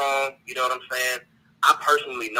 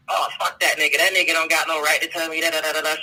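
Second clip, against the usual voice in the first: imitating a woman; 3 semitones higher, 3 dB louder than usual. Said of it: "if I was a woman".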